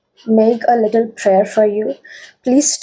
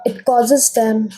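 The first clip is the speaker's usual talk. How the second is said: steady, earnest invocation; protective prayer. Acted. Reader prays for group twos' protection, steady and earnest. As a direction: call on the stone with calm command.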